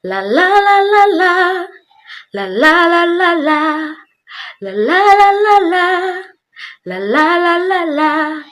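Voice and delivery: sung with nose pinched shut; pinching nose. Shown as a demonstration. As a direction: sing while holding the nose closed. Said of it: "Now pinch your nose and try again".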